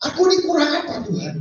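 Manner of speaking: a mild imitated frustrated cry; frustrated complaint. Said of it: "saking frustasi dia ngomong". (keluhan frustrasi yang ditirukan ringan)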